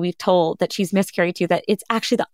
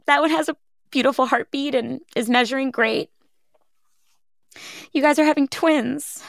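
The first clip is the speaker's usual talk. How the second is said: higher, beaming news of twins; delighted surprise; 5 semitones higher than usual. Retold or imitated. Kind doctor tells the parents it's twins, delighted and higher. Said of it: "he goes".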